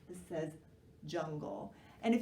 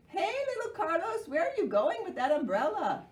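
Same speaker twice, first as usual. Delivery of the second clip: calling papa; 9 semitones higher, 6 dB louder than usual. Acted. Papa calls to Carlos.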